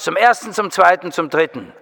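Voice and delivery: playful auction countdown, fading; going once, going twice, trailing off; auctioneer. Pretend. Mock auction call to audience.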